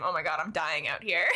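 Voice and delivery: laughing while talking; words breaking into laughter. Real, not acted. Laughing at her own situation.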